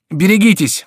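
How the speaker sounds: very high, loud alarm; warning cry. A narrator's reading. Remy warns Bussy of attackers, high alarmed cry. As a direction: shout a sudden warning. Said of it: "вскричал Реми".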